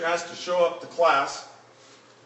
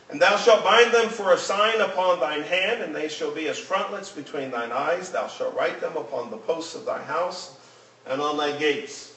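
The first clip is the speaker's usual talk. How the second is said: measured reading of sacred verse, strong opening; scripture recitation; 3 semitones higher, 3 dB louder than usual. Acted. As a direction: recite it firmly from the pulpit.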